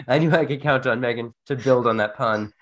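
talking through laughter; amused, laughing words. Real, not acted. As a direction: still laughing at the joke. Laughing after the boo.

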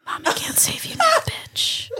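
menacing unvoiced whisper; taunting whisper. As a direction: hiss a cruel taunt.

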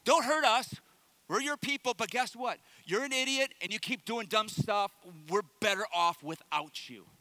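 hammed-up crowd pleading, then scolding; comic plea turning into mock exasperation; hilarious mock pleading. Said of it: "read it in the most hilarious voice".

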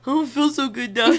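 hammed-up movie death line; acted fading victim. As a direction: play dying, half laughing. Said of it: "you see me go".

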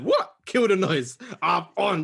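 high, loud outraged athlete; Aaron Rodgers. Retold or imitated. Quarterback answering a bad prediction, mock outraged shout. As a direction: fire back like an insulted star quarterback. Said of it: "Aaron Rodgers heard that and said".

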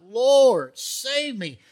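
loud cry for help. Retold or imitated. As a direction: shout to the Lord to save you. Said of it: "he cried out".

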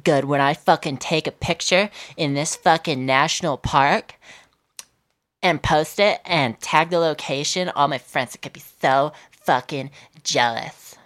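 a hint of a gushing selfie-taker, sneered at; mild mock tourist voice, a bit fast at the start. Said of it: "And they're like".

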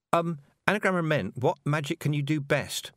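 gently smooth it over for Tiffany; kindly. A narrator's reading. Petulia kindly rescuing Tiffany, lightly voiced gentle girl. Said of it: "said Petulia kindly".

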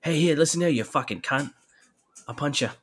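hammed-up angry coach threats; swearing tirade. Voicing the raging coach in clip.

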